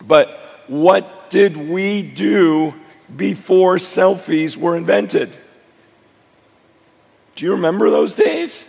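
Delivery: hoarse voice, slow at the start. Real, not acted. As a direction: strain through a hoarse voice. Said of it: "Sorry, my voice is gone from the week".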